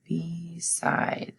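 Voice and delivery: Beside whispered, be and side pulled apart; syllable split whisper. Shown as a demonstration. Teacher showing kids the syllable break, whispered. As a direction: whisper Beside in two beats. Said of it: "break that where the syllable is".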